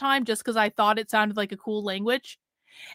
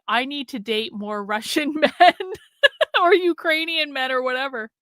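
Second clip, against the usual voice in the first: giggling through a swooning post; laughing through it; 3 semitones higher than usual. Retold or imitated. Streamer reading her old post while laughing. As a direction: let laughter break into the words. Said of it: "I was like".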